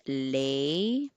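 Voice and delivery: Lei said slowly and softly as "lay"; the first part of the name, Lei, drawn out; teaching only the opening sound Lei; first syllable shown. Shown as a demonstration. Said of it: "the stress is on the first syllable".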